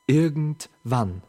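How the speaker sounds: slow, stretched word; drawn out. Acted. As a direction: let the word linger. Repeated, second slowed.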